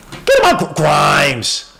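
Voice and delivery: high, loud call to the player; real fan hollering at the screen; excited call. Real, not acted. Urging the player during play.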